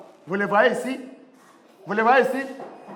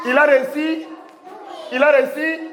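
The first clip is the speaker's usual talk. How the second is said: excited praise; 6 semitones higher than usual. Real, not acted. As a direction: celebrate the pupil's success. Teacher praises pupil's success.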